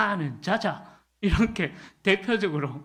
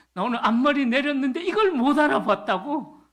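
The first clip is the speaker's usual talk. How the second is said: higher, faster, louder mock girlfriend complaint; indignant girlfriend; 7 semitones higher, 4 dB louder than usual. Preacher mimics girlfriend upset over unnoticed bangs, high indignant voice. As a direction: play the offended girlfriend, pitched up and quick.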